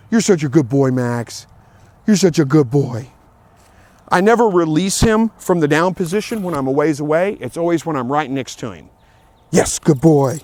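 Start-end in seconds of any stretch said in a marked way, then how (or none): 0.1-3.1 praising the dog. Real, not acted. 9.5-10.4 praising the dog. Real, not acted.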